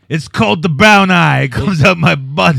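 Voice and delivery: loud mock boast; hammed-up Kano routine. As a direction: belt it out like a cartoon brawler. Continues the Kano impression.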